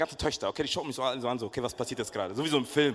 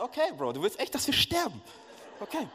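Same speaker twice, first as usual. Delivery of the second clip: mock resigned; 9 semitones higher than usual. Resigned to drinking poison.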